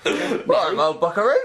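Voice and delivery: put-on a slipped-in Australian accent on the word buckaroo. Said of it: "I don't know why I've got Australian".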